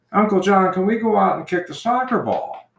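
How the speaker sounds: put-on eager little girl. Five-year-old girl voiced in story.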